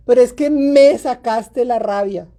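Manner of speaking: slow complaint leaning hard on "me"; stress on ME. Acted. Parent's apology turns to blaming the child, drawn-out stress on "me". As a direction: stretch "me" as the grievance. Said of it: "Y cuando vienes con el me".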